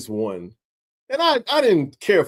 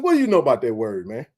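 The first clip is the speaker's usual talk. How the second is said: retold angry question; faster than usual. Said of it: "I was hot".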